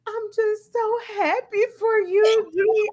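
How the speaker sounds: high, voiced-over tearful friend. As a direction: play the crying friend gushing. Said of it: "she was crying".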